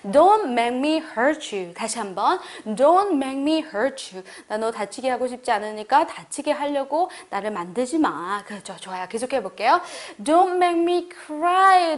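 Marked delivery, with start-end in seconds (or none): 0.1-1.7 warning. Shown as a demonstration. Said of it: "경고하면서 말해보실게요". 10.2-12.0 higher, louder, voice overcome with emotion; touched, near tears. Shown as a demonstration. Friends throw a surprise party, voice touched and tearful. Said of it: "나 울게 하지 마".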